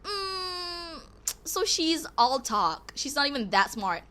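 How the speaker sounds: mock snide "Mm", slowed; a hint of a catty classmate; imitating sneering peers. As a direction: drawl it out snidely, lightly voiced. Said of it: "People are like".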